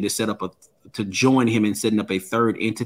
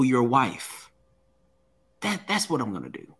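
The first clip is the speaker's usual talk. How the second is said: mild mobster threat, slowing right down on the kill line; lightly voiced mafia boss, cold and unhurried; bully threatening the speaker's wife, understated mafia menace; mafia style; 5 semitones higher than usual. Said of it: "almost in a mafia style".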